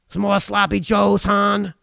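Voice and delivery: a light hint of a husky smoker lunch lady, slow; raspy lunch lady. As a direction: drawl it like a tired cafeteria lady with a cigarette voice. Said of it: "I sounded like Lunch Lady Doris after her fortieth cigarette".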